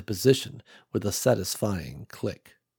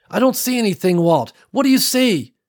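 higher, questioning, raised; puzzled leader; 10 semitones higher, 6 dB louder than usual. Acted. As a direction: ask it puzzled into the radio. Nicole on the radio.

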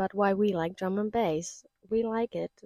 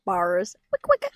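MC call; 4 semitones lower, 5 dB louder, slower than usual. Pretend. Friends joking on mic, mock jungle MC call. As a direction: hype the crowd like a jungle MC. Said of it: "mock MC call".

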